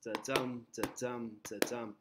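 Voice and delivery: "da-dum" with a weak "da" and a stressed "dum"; heartbeat rhythm. Shown as a demonstration. Teacher showing the class the poem's beat, "da-dum" in heartbeat rhythm. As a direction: say "da-dum" as a steady heartbeat, landing on "dum". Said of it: "that heartbeat".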